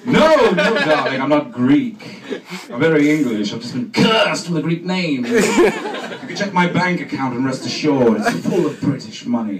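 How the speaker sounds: put-on loud grand English accent; posh English actor voice. Actor insists to casting panel he is English, loud posh. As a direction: insist you're very English, loudly. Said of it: "I begin to speak like this".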